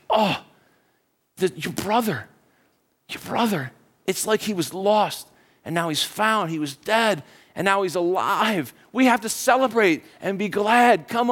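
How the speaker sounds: gentle, slowed reassurance; mild heartfelt coaxing; tender appeal. Acted. Father tenderly answers the angry son.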